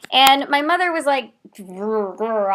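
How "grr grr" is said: imitated grumbling growl; mock growl. Mother stumped by the bisexual question, mock growling. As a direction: growl like a flustered parent.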